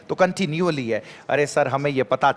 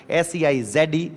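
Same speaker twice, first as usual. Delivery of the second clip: letters spelled slowly one by one; slow spelling out; slower than usual. Shown as a demonstration. Teacher spelling a word slowly for students. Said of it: "क्या बोलते हैं sir?".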